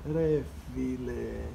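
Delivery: Re file drawn out slowly as an exclamation; exclaimed. Shown as a demonstration. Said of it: "you exclaim".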